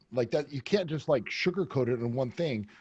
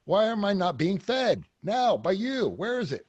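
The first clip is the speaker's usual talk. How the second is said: mock demanding; 5 semitones higher than usual. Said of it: "joking around".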